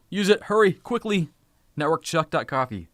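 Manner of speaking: excited, high-pitched prodding; urgent hurrying. Real, not acted. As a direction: hurry the viewers along to grab it. Racing viewers to grab gift card.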